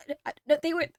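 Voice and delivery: flustered guard tripping over his words; bumbling excuse. Acted. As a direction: fumble your way through a protest. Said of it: "he's kinda, like, bumbling around".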